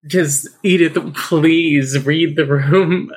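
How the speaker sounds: slow, stretched-out please read the room; exasperated plea. Real, not acted. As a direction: beg her to read the room. Pleading with book character.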